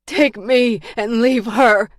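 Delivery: high, loud, slow plea; strained, drawn-out begging; gasped plea. A narrator's reading. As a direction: force out each word desperately. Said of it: "she gasped".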